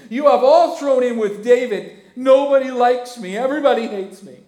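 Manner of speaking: building to a high, loud whine; escalating self-pity, ending loud; sulking king building to a loud complaint; whining Saul. Acted. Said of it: "That's what Saul's doing".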